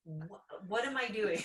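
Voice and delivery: half-laughing what am I doing; laughing panic. Retold or imitated. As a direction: cry out through laughter in disbelief. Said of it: "I was like".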